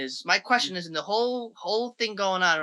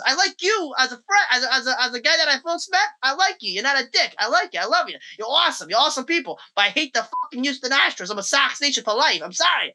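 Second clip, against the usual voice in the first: retold excited pleading; 6 semitones higher, faster than usual. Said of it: "I said".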